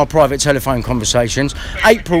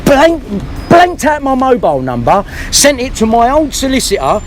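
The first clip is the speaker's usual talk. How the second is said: heated rant; 3 semitones higher than usual. Real, not acted. Angry rant at the police station.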